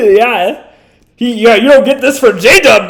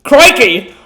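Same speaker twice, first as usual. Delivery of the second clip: mock Australian; 4 dB louder than usual. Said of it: "is this Australian fell?".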